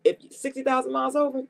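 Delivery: laughing in disbelief, pitch up; amused laugh. Real, not acted. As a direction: chuckle through the absurd mileage. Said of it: "And I'm laughing because".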